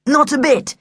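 playing it cool; cool, feigned modesty. A narrator's reading. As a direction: toss it off coolly. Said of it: "he said coolly".

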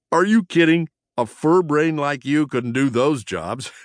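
high, squeaky jeer; mock him in a high mouse voice; teasing prankster mouse, mocking. A narrator's reading. Prankster belittles his cousin, high mocking voice.

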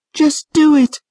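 high, loud and firm; insistent girl voice. A narrator's reading. Trish ordering Patrick to trust her, high firm voice. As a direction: insist on it sharply.

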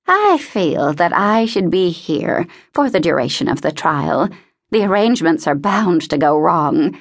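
lightly voiced old lady, fussy and emphatic; a touch of self-important insistence; insistent old woman. Voices insistent Mrs Pembroke.

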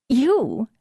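high, loud, disbelieving yelp; incredulous. Acted. Amber scoffs at Ariane's worry, loud and high. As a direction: throw the word back in disbelief.

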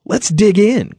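put-on high, eager boyish cry; storybook boy thrilled to start eating, high voice; exuberant cry. A narrator's reading. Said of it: "cried Isaiah exuberantly".

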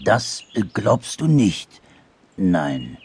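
slow halting question, dropping at the end; falter, then give in; hesitant, disappointed. Acted. Anteater taking in dormouse's verdict, hesitant and let down.

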